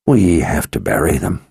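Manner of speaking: understated, anguished character voice; misery in the voice. A narrator's reading. Victor wanting to bury his dead friends, miserable. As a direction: let a little misery fill the words. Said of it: "misery now filling his voice".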